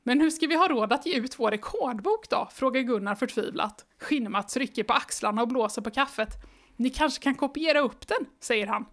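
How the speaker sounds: even, lively read-aloud pace; storybook reading voice; story narration. A narrator's reading. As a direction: read the children's book to the listener. Reads the book aloud.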